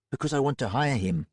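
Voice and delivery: brash tough woman's voice; Roxy Hazard voice. Acted.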